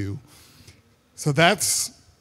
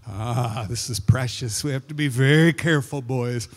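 acting out awe over a newborn; tender hushing father; 5 semitones lower than usual. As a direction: gently caution small boys, voice dropped. Father hushing boys around new baby.

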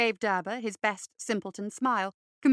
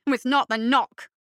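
fussy bureaucrat voice; 2 semitones higher, 7 dB louder than usual. Acted. Derber character voice.

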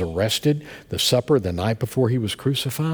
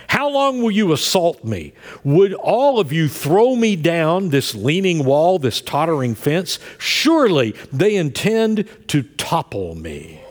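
psalmist crying out to his enemies; 6 semitones higher than usual. Retold or imitated. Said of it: "The psalmist switches his voice".

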